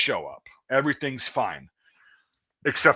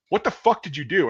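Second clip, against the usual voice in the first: Marine's demand; 6 semitones higher than usual. Retold or imitated. Marine demands an answer from recruit.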